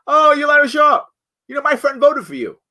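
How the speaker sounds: high, loud delighted clerk voice; excited hotel clerk. Retold or imitated. Hotel clerk checking in the guest, high and loud with delight. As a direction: play a starstruck clerk spotting a celebrity.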